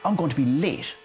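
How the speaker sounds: whining mock exasperation; hammed-up frustrated complaint; pretend anger. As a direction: act worked up about running late. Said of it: "I was getting so angry".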